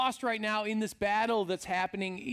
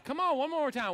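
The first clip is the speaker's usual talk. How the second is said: eager prompt; 5 semitones higher than usual. Shown as a demonstration. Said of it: "So let's practice that".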